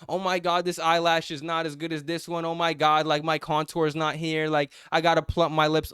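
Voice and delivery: mock vain girl.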